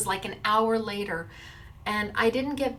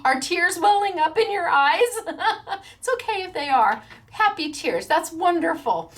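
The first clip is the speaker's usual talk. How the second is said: higher, louder, laughing delight; gushing excitement; 7 semitones higher, 3 dB louder than usual. Real, not acted. Vlogger congratulating winner Lisa, higher and louder with laughter. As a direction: gush over the winner.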